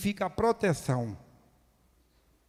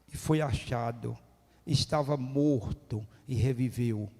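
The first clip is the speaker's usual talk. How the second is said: tender father; 4 semitones lower than usual. Acted. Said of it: "O pai fala".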